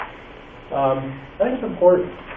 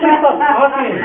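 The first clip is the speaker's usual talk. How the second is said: high, loud laughing protest; 9 semitones higher, 7 dB louder, much slower than usual. Retold or imitated. Teacher laughing off the principal's praise, loud high laughing protest.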